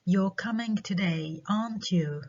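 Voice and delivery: slow statement, then "aren't you" falling; falling tag question. Shown as a demonstration. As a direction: drop "aren't you" to force agreement. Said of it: "falling intonation على on the last part".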